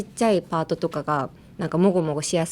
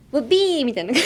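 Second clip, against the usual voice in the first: playful exaggeration; 5 semitones higher than usual. Shown as a demonstration. Playful exaggerated demo of the phrase.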